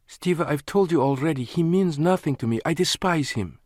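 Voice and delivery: pleading woman. A narrator's reading. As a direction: press him to believe you. Lana voiced insistently.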